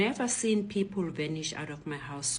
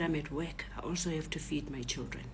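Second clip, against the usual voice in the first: softer, lowered explanation; subdued confession; 3 semitones lower, 7 dB quieter than usual. Retold or imitated. Robber explains he must feed his children, subdued and sincere. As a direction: explain yourself quietly and sincerely.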